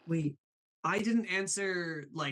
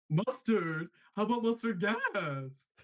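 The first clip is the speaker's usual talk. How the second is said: higher, drawn-out creepy clown voice; menacing cartoon clown joke; Chuckles the Clown; 4 semitones higher, slower than usual. Showing his newest impression, Chuckles the Clown. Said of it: "Chuckles the Clown, where he's like".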